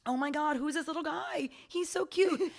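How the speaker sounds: high and loud, cooing; new skin cells gushing over a little guy. Pretend. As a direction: gush over a cute newcomer. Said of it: "new cells are like".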